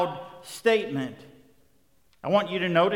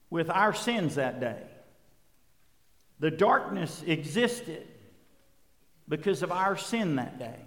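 solemn hush; 6 dB quieter than usual. Real, not acted. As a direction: weigh each phrase softly and leave heavy silences. Grave pause on sin at crucifixion.

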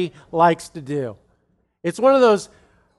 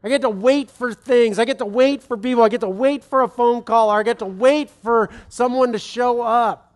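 bright, mock-eager voice, a bit higher; mock cheerful; 3 semitones higher than usual. Man waking up, sarcastically eager about waiting. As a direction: pretend you can't wait to wait. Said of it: "in the morning and say".

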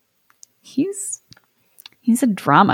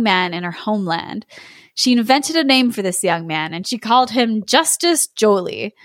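measured, expressive fairy-tale reading; story narration. Acted. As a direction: spin the romance out, lingering on key phrases. Reads the inner tale aloud.

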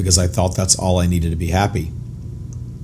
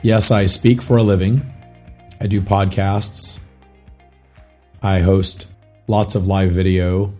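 hoarse, raspy, barely-there voice; lost voice. Real, not acted. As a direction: talk through a voice that's nearly gone. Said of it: "I have no voice".

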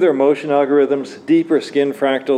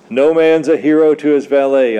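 louder, evenly pitched mock-solemn line; intoning; 4 dB louder than usual. A narrator's reading. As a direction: intone it like a grand maxim, a little louder. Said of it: "I intoned".

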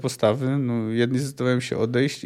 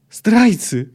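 loud, high furious yell; screamed accusation; 8 semitones higher, 7 dB louder than usual. A narrator's reading. Dacre screaming at the deserters, furious yell. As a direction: scream it at the traitors. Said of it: "wrzasnął Dacre".

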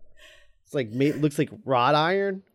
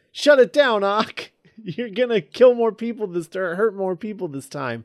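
goofy hero line; 6 semitones higher than usual. Retold or imitated. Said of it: "goofy performance".

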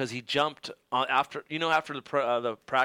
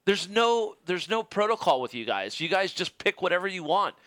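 arguing; 5 semitones higher than usual. Retold or imitated. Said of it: "I'm like".

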